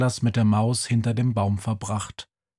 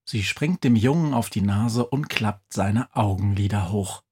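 ordinary delivery

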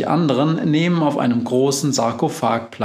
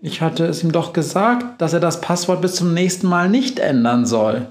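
a hint of a brisk witch, quick; lightly voiced witch; 5 semitones higher than usual. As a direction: rattle it off as the cheerful witch. Befana voiced in story.

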